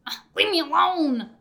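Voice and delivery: high, loud mock protest; hammed-up shooing someone away; annoyed outburst. Ted to the man whispering at him, acted annoyed outburst.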